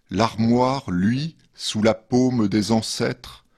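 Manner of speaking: measured poetry reading with pauses between verses; poem reading. Acted. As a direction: read each verse line apart, letting it settle. Reads second poem after musical break. (lecture de poème posée)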